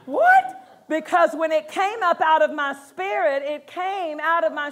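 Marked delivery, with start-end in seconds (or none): 0.1-0.6 high, loud nerdy squeak, laughing; Urkel impression. Preacher mimicking Urkel to the church, high squeaky nerd. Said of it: "I felt like Urkel".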